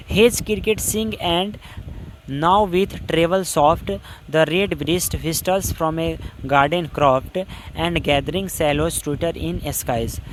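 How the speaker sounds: very slow, measured reading of verse; slow classroom recitation of a poem. Shown as a demonstration. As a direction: read each poetic word slowly and deliberately. Teacher recites poem stanza.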